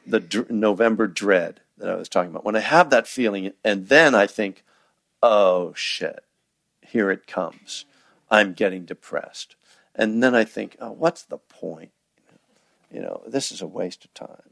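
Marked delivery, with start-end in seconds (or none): 5.2-14.4 mock dejection. Teacher voicing his own gloomy thoughts, dejected.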